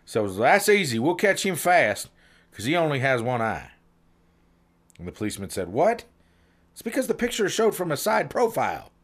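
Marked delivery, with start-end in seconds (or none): 0.2-3.7 hint of a confident dimwit; dim first trainee. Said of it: "must have been from Chino". 5.7-8.9 high-pitched exasperated disbelief, acted; mock-baffled cop setting a fool straight; incredulous policeman.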